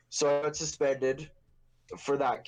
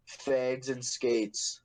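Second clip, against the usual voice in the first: slow quote; much slower than usual. Retold or imitated. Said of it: "I called them and I quote".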